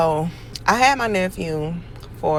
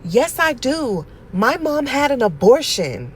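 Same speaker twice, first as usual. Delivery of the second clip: deadpan insistence; 7 semitones higher, 5 dB louder than usual. Retold or imitated. Nephew insisting on his claim.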